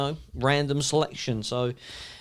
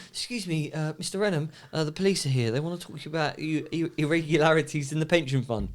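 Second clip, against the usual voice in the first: much softer, timid announcement; hushed assistant; 6 dB quieter than usual. Retold or imitated. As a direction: break the bad news quietly. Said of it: "he, um".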